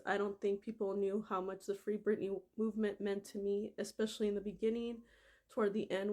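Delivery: steady reading of a quoted passage; reading aloud. Acted. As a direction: read the quote out evenly, a little moved. Reads memoir quote aloud.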